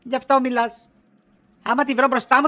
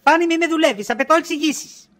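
jealous demand; 4 semitones higher than usual. Acted. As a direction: put your foot down, no more jokes. Jealous wife confronting husband.

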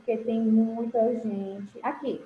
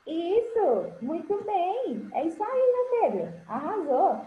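excited praise; 4 semitones higher than usual. Real, not acted. Teacher praising a correct pupil.

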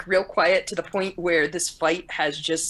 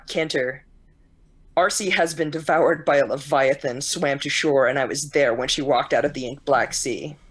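put-on low, eerie voice far too old for a child; a child speaking like an ancient ghost, lower; ghostly old voice; 5 semitones lower than usual. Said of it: "he's speaking entirely too old for his age".

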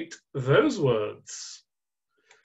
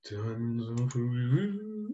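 low, slow actor impression; Sean Connery; 5 semitones lower, 7 dB quieter, slower than usual. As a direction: draw it out low and soft in tribute. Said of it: "quick tribute here to Sean Connery".

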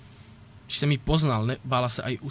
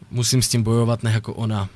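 louder determined vow; 6 dB louder than usual. Real, not acted. Heated vow in his rant.

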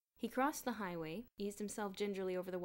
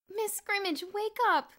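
high, loud pleading; begging; 12 semitones higher, 10 dB louder than usual. A narrator's reading. Kathy begs the fainted headmistress to wake up. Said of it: "Kathy was begging".

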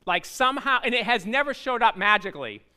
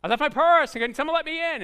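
much higher, louder frantic plea; panicked caller; 8 semitones higher, 6 dB louder than usual. Retold or imitated. Churchgoer calls the pastor about a forgotten purse, panicked. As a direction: beg like someone locked out. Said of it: "We get a panic phone call".

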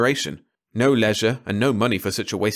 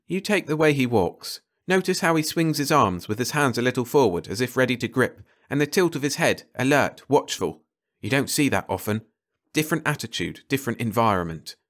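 lightly voiced, higher-pitched expert; keen observing ecologist; 4 semitones higher than usual. Carter talking to Ranson about how George walks, keenly observant. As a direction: point out each detail with keen interest.

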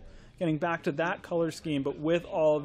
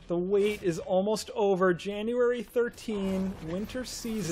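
movie trailer voice. Acted. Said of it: "Sounds like a movie trailer".

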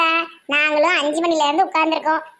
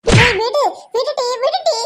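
shout to break up; 4 semitones higher, 3 dB louder, slower than usual. Acted. Pulling apart a fistfight.

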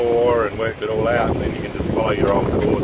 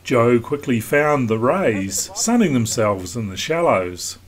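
even, measured documentary read; calm voiceover read to the viewers; vlog voiceover; 3 semitones higher than usual. Acted. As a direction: narrate the passage like a sailing film.

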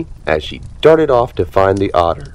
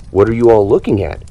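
grimacing; 3 semitones higher, 4 dB louder, faster than usual. Acted. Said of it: "he asked with a grimace".

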